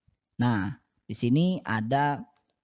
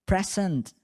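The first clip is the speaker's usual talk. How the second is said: higher, calling out a name like a teacher at roll call; teacher taking roll; 5 semitones higher, 3 dB louder, slower than usual. Shown as a demonstration. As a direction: call Joko's name across the class. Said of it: "ketika guru sedang mengabsen". (guru memanggil nama saat absen)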